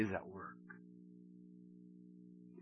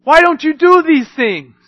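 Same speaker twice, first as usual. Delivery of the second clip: loud mock challenge; 11 semitones higher, 9 dB louder than usual. Mock question to believer.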